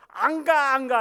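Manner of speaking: high loud panicked protest; cling on and refuse in panic; desperate refusal. Acted. Dying unbeliever refusing to go, panicked and loud.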